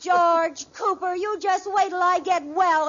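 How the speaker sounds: mock threat. Wife playfully threatening husband by full name. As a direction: bite out his full name.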